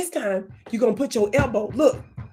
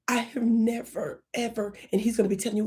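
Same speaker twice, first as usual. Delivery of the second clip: ordinary talk, nothing marked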